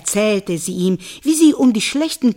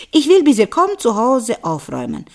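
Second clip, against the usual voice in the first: calling back; 3 semitones higher, 4 dB louder, faster than usual. Acted. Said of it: "rief sie zurück".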